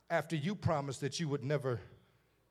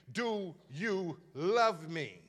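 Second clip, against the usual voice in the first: Jesus asking; much slower than usual. Acted.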